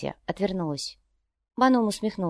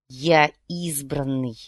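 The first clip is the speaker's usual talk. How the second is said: proud fanatic; 4 semitones lower, much slower than usual. Acted. Fanatic proclaims himself chosen.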